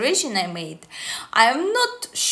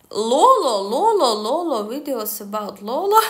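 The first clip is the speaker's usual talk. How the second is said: sing-song repetition; 3 semitones higher, 4 dB louder than usual. Shown as a demonstration. Reeling off repeated statistic result.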